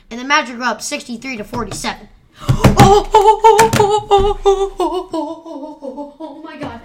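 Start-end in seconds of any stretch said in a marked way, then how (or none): 2.4-6.8 high rising excited gasps; fading to a hushed oh my God. Real, not acted. Excited at the score.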